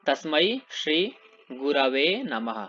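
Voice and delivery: तस्मै श्री गुरवे नमः said slowly, गुरवे as gu-ra-ve; correct pronunciation. Shown as a demonstration. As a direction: model गुरवे carefully for the class, slow. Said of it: "ऐसे बोलना आपको".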